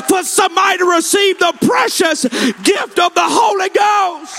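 impassioned revival preacher, driving without let-up; fervent altar-call preaching, rising in pitch; full-force preaching. Real, not acted.

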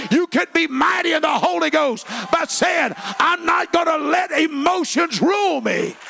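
high, loud preaching shout; rally the church at full voice; fiery call to the congregation; shouting preacher. Acted. Pastor preaching.

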